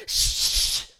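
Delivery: long, loud retold shushing; drawn-out harsh "shh"; forceful shush. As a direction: imitate a rude passenger's shush. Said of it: "she stood up and went".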